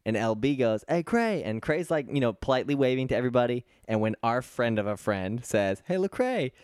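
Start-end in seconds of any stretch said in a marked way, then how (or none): 0.9-1.4 retold call-out. Imitates friend calling to a celebrity. 5.8-6.5 light, high call-out; retold greeting call. Imitates friend calling the rapper over.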